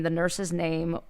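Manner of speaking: usual speaking voice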